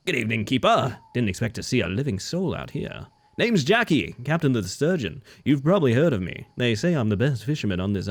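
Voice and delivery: lightly voiced friendly fisherman; a hint of a boastful sea captain.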